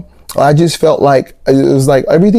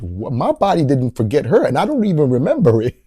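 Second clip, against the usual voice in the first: hushed disbelief; 2 semitones higher, 6 dB quieter than usual. Retold or imitated. Incredulous reaction retold quietly.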